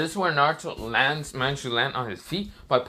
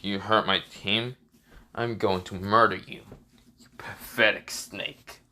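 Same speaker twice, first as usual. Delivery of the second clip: low, slow acted menace; pissed off; 4 semitones lower than usual. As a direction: deliver a slow, low threat with restrained anger. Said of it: "Naruto's fully pissed".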